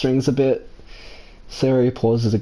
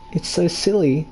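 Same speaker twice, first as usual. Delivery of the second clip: higher voice, earnest and self-deprecating; confiding friend; 6 semitones higher than usual. Acted. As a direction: open up shyly in a higher voice. Voices a friend confessing feelings.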